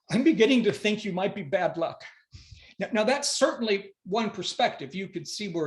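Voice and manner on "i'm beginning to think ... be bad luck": louder, dry deadpan delivery of the twist; old husband's punchline. Acted. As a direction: let the old man drop the line flat. Walt's punchline to his wife.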